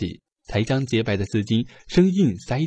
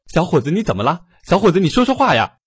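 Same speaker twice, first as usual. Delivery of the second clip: anxious calling; 6 semitones higher, 6 dB louder than usual. Acted. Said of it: "着急地高声询问".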